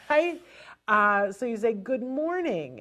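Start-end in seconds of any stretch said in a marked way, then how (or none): 1.7-2.8 slow Good morning then a pause; slow greeting. Shown as a demonstration. Parent greeting the child slowly, then pausing. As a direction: say it slowly and leave space. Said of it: "and pause".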